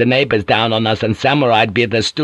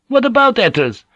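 high pressing question; 12 semitones higher than usual. Acted.

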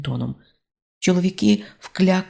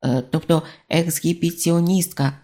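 plain reading voice

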